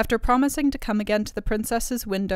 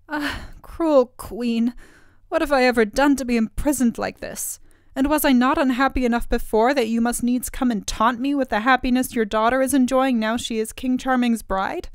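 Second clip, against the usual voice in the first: lamenting; 4 semitones higher, 4 dB louder than usual. Acted. Princess alone at her window, mild plaintive lament. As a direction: pour out her grief to the night. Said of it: "a soft voice lamenting".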